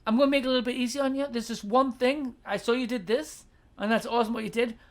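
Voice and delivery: a touch of friendly coaching; encouraging suggestion. Shown as a demonstration. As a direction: offer a tip kindly. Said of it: "Maybe even go".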